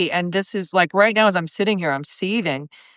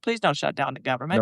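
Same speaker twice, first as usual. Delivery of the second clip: softer, lower imitated plea; timid begging federal worker; meek imitation, softer and lower; mock pleading; 5 semitones lower, 6 dB quieter, faster than usual. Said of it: "you'd be like".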